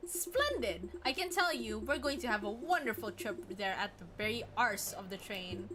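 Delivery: put-on amateur British accent, reading game dialogue; shaky British accent attempt. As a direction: have a go at British, not quite landing it. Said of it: "I can't do a British accent".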